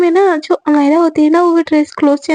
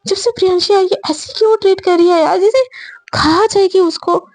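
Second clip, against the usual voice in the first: higher-pitched exasperated grumbling; acted, understated crossness; mildly angry; 5 semitones higher than usual. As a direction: vent about someone's odd behaviour. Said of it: "वो ऐसे गुस्सा होके".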